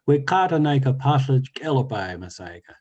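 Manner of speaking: monster voice. Acted. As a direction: boom it out like the story's monster. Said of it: "the monster says".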